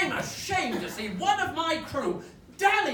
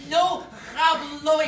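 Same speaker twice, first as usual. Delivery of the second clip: mock Spanish; 6 dB louder, slower than usual. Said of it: "It's the accent, you see".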